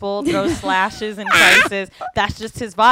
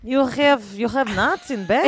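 put-on light Israeli accent, broken English. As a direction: play an Israeli guy asking, lightly accented. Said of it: "how do you do an Israeli accent".

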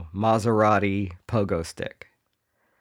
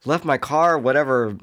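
higher-pitched, put-on bragging voice; boastful commuter; 5 semitones higher than usual. Pogo commuter bragging to his boss, mock-proud. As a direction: show off in a comic high voice. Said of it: "And he's like".

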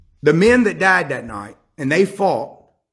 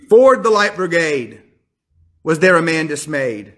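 poem recitation. Acted.

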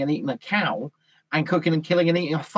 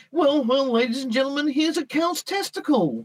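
presenter voice; 9 semitones higher than usual. Retold or imitated. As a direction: ham up a game show host. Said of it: "they're like".

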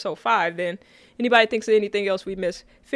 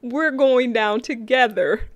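slow mock quote; slower than usual. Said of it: "The whole".

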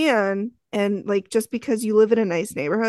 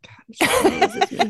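mock posh voice; 9 semitones higher than usual. Mock self-praise, far high.

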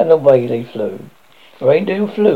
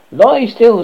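stern command; 8 semitones higher, 6 dB louder than usual. A narrator's reading. Robber girl commands, threatens knife.

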